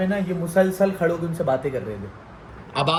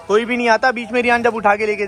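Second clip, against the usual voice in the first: louder, sharp warning; raised scolding voice; 3 semitones higher, 4 dB louder than usual. Real, not acted. Father warning his sons about the empty street, louder. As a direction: press the danger home, raised.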